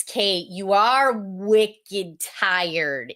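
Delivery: slow, broad Boston "wicked tired"; drawn-out Boston "wicked"; Boston accent. Shown as a demonstration. Teacher demoing a local phrase, slow Boston accent.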